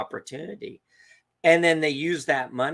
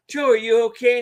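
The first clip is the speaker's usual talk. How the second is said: raised, loud retold question; urgent concern; 10 semitones higher, 7 dB louder than usual. Dad checking on Joe after the scream, urgent concern. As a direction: call out to check on a friend.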